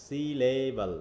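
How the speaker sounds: সিলেবল drawn out syllable by syllable; broken into syllables. Shown as a demonstration. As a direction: say সিলেবল in separate parts, si-le-bal. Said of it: "এরকম বলবো আমরা".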